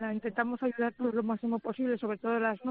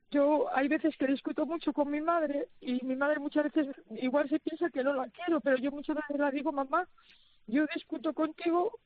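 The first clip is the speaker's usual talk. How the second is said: higher voice, welling up with feeling; heartfelt, higher-pitched and halting; moved, emotional; 4 semitones higher than usual. Real, not acted. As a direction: speak through real emotion about your mother. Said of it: "perdóname que me haya emocionado".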